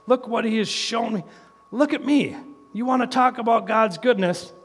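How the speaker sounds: joyful testimony, climbing in pitch; rising testimony. Retold or imitated. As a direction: proclaim it like living proof. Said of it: "stand up and say".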